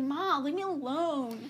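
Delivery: slow, mock sulk; lightly voiced moody son; moody teen. Moody son brushing off his mother, mock sulky. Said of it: "He's acting moody".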